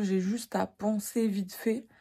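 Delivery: lisping with a retainer in; slight lisp from aligners in the mouth; wearing a retainer. Real, not acted. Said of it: "Désolée si je zozote, j'ai mes gouttières".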